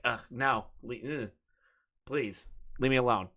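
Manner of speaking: low-volume, halting disgust; mock recoiling. Imagining a fan approaching him, quiet mock recoil.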